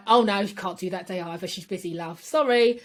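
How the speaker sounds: breezy mock Cockney refusal; lightly imitated London working-class voice; East End accent. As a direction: put on a chummy East End brush-off. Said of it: "I don't know why I put that accent on".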